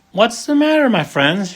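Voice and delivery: high, kindly concern. A narrator's reading. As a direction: ask gently, caring for them. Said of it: "she asked kindly".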